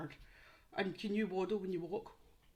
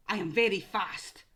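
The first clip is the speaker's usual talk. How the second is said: louder clue with stress on very; emphatic clue; 7 dB louder than usual. Shown as a demonstration. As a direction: push the word very. Clue read then repeated.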